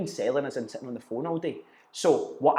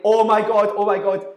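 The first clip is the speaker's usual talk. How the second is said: much higher and louder, a squeal of joy; imagine you just won the lottery and shriek it; ecstatic disbelief; 6 semitones higher, 10 dB louder than usual. Retold or imitated. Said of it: "You'd be like".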